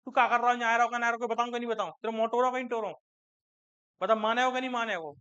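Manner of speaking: lightly voiced home-region Hindi dialect, casual and rustic; a hint of his home-region Hindi dialect, spoken as among locals; home regional dialect. Shown as a demonstration. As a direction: slip into your native village Hindi dialect for a moment. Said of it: "ये मेरा dialect है".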